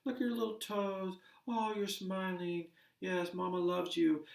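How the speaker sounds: put-on high, cooing mother-to-baby voice; sing-song baby talk. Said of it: "they'll talk in a sing-song voice".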